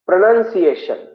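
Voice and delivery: "प्रनन्सिएशन" with a short "nun" in the middle; correct pronunciation. Shown as a demonstration. Teacher introducing an important word, "प्रनन्सिएशन" modelled correctly with nun. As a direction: model "प्रनन्सिएशन" clearly, nun not noun. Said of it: "अतिशय महत्वाचा शब्द".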